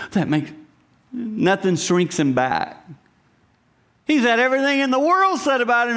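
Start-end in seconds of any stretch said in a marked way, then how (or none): 4.1-6.0 rising preaching fervor. Acted. Preaching climax about God.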